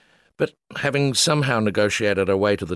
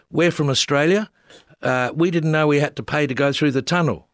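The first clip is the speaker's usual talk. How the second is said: higher, pleading tourist voice; Australian tourist begging at a tunnel booth, higher and pleading; 6 semitones higher than usual. Retold or imitated. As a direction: plead innocently with the official. Pleading with ticket official.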